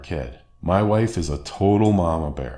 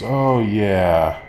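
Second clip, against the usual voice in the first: dismissive mom; 5 dB louder than usual. Retold or imitated. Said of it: "vaguely remember it and goes".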